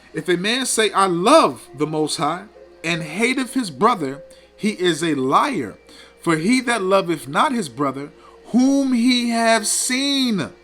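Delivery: slow, emphatic verse recitation; scripture reading. Acted. Preacher quoting the verse to expose hypocrisy, slow emphatic reading. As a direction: draw out the weighty words as you read.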